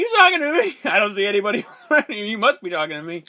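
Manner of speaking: mock Taxi Driver line. Friend in movie chat quotes the line as mock tough guy. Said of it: "Lisa Zane".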